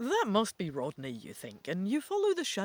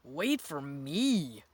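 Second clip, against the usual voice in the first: yell; 4 semitones lower, much slower than usual. A narrator's reading. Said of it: "Rodney yells".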